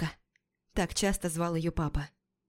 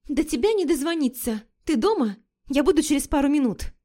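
подружка Лика; 6 semitones higher than usual. Acted. Подруга Лика звонит, говорит взволнованно.

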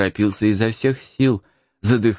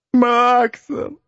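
high tearful whimper; whimpered answer; 3 dB louder than usual. Acted. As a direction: sniffle your name.

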